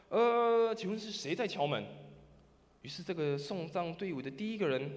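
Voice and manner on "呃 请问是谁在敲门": somewhat louder. Retold or imitated. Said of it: "用大一点的声音说什么".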